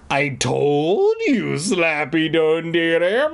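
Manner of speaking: put-on high, slow whiny girl insisting; girl's cry. A narrator's reading. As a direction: whine it like a kid who won't be doubted. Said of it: "I cried".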